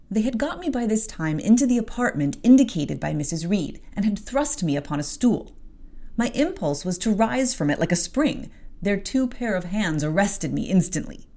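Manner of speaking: steady storybook reading; story narration. A narrator's reading. Host reading the novel, narration. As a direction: tell it plainly to the listener.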